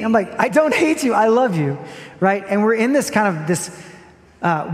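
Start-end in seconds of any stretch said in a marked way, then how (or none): 0.4-1.8 pleading dad. Retold or imitated.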